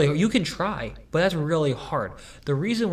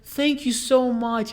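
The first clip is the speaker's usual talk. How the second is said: high, slow old-lady imitation; nice old lady; 9 semitones higher, 3 dB louder, slower than usual. Old lady thanking her helper, high slow imitated voice. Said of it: "she's just so nice".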